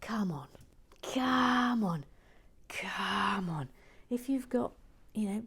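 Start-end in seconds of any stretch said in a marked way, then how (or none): 0.0-3.7 eager whispered come on; urging. Real, not acted. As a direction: coax them in eagerly. Urging lurking viewers.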